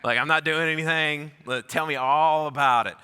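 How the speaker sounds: loud, eager, keen to talk; eager invitation. Retold or imitated. Narrator eagerly invites the young cult member to talk, loud and keen. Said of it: "I was like".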